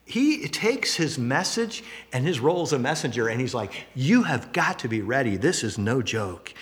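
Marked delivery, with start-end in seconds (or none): 3.9-6.5 earnest warning, slowing at the end; firm and serious, dropping lower to finish; dead serious. Acted. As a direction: warn them as a dead-serious messenger. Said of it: "He is dead serious".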